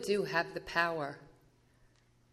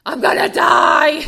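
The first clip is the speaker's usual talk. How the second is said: slow, high, full-force cry of despair; desperate shout; 11 semitones higher, 17 dB louder, slower than usual. Retold or imitated. Telling Val on the phone she's going to die, desperate high shout. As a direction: throw it out like a drowning plea.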